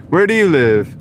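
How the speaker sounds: mock accent with a rolled R in rural. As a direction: play a posh local, trilling rural. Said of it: "roll your R's".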